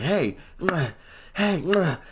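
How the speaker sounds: high "hey", then a puffed punch noise; imitated breath blasts. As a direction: act out breath landing like jabs. Imitates bad breath hitting like punches.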